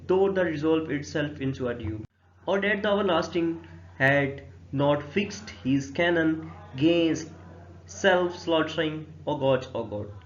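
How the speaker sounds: very slow, measured reading of the verse; verse recitation. Acted. Teacher reading Hamlet's first soliloquy to students, slow recitation. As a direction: recite line by line, drawing the words out.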